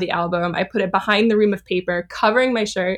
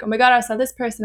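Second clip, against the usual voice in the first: fast, gushing celebrity-spotting rush; excited gushing; 4 semitones higher, faster than usual. Retold or imitated. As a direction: blurt it out like you just saw a star. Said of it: "And they'd be like".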